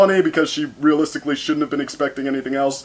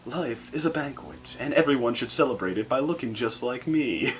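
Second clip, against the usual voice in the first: Applejack doing Rarity; 2 semitones higher, 5 dB quieter than usual. Retold or imitated. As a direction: purr it like an overplayed fashion model. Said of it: "borrowing a line from Auntie Mame".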